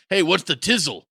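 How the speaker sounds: carny code with "tizzle" as the punch word; carny talk. Retold or imitated. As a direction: say "tizzle" in izzle slang. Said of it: "this izzle talk or this carny talk".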